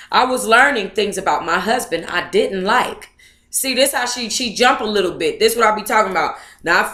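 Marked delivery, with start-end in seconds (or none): 0.1-3.1 reading a memoir aloud at an even pace; story narration. Acted. Vlogger reading the book passage aloud to viewers, steady story narration.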